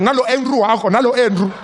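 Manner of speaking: high, loud taunt; grandma taunting. Retold or imitated. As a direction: wave the friend away mockingly. Grandma mocking.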